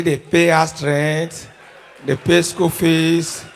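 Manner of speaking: very slow, low comic list; slow, deliberate roll call in a low pitch; drawn-out listing. Acted. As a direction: stretch out each chore for effect. Listing wife's bills as household head.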